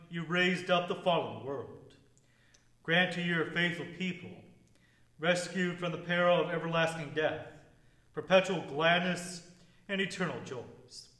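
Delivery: measured, solemn prayer read. Acted. Opening collect prayer.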